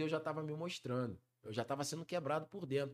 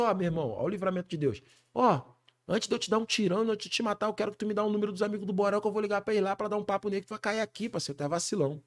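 loud, fast retold threat; threatening gang boss; 4 semitones higher, 6 dB louder than usual. Gang boss threatening the singer before shooting, loud fast threat. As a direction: bark the threat like a favela boss.

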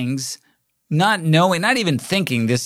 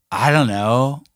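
lightly voiced stoner drawing out the answer; stoned shop girl; 4 dB louder, slower than usual. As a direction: quote her as mildly stoned. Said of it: "she's just stoned out of her mind".

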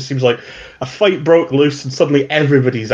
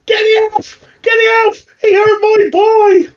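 much higher, louder, slow crying shout; distraught mother; 4 dB louder than usual. Acted. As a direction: wail like a mother whose boy was hurt. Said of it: "this woman here who's like".

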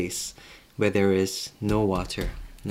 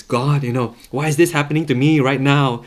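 mock prayer of protest, voice raised; complaining prayer; 3 semitones higher, 6 dB louder, faster than usual. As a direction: pray as if reading God a list of grievances, loudly. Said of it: "you can tell from my prayers".

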